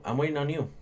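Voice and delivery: a touch of cold impatience; flat-out done with her; curt. Retold or imitated. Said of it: "I just look at her and go".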